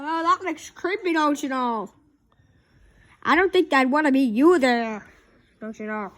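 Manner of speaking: mild Minnesota lilt; a hint of Minnesota nice; Minnesota accent. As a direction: Minnesota accent, don't you know. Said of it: "Would you stop saying, "don't you know".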